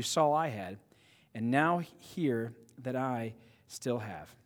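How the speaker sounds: measured read-aloud of scripture. Acted. Pastor reads Paul's letter to his church, measured scripture reading. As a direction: read the passage out evenly to a congregation.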